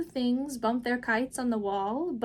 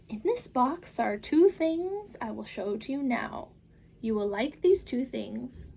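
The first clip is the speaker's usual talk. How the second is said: put-on the Cat in the Hat calming the children, big and upbeat; 2 semitones higher, 4 dB louder than usual. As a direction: reassure the kids with a grand flourish. Cat presents the box.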